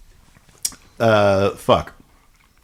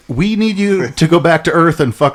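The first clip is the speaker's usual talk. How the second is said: mock solemn spirits; 6 semitones higher than usual. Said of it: "And they're like".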